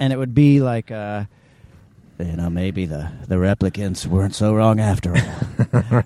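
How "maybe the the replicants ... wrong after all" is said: low, dramatic sci-fi film voiceover narration. Showing how a lead's film narration would sound: dramatic Deckard voiceover. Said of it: "Do a dramatic voiceover, like a science fiction movie".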